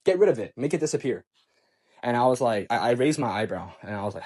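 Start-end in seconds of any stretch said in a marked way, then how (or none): 0.0-1.2 stern retold command, each order separate; imitating someone laying down the law. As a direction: give a firm, insistent order. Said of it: "She said that very sternly".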